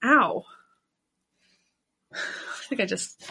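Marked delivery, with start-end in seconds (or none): 0.0-0.4 wincing from a paper cut. Real, not acted. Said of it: "got a paper cut".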